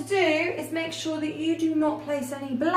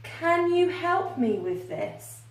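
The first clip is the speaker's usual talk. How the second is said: higher, slow, gentle question; polite request; 5 semitones higher, slower than usual. Shown as a demonstration. Teacher demonstrating a polite request, gentle and higher. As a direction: ask nicely, like a request. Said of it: "you could say".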